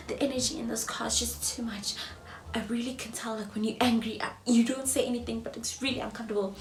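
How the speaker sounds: soft, hushed, uneasy; mild panicky whisper. Retold or imitated. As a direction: mutter it nervously. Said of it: "I remember him panicking".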